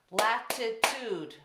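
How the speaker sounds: slow, loud, syllable by syllable; clapped out syllables. Shown as a demonstration. Teacher clapping syllables for class, slow and loud. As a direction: clap out Latitude slowly and loudly, La-ti-tude. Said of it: "Remember, we clapped them out".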